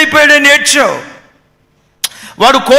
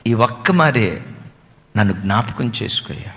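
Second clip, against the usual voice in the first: much softer, lower, breaking plea; tearful plea; 14 semitones lower, 9 dB quieter than usual. Acted. Samson, bound to the pillar, begs God through tears. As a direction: let the voice break as you beg God.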